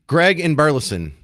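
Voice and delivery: ordinary talk, nothing marked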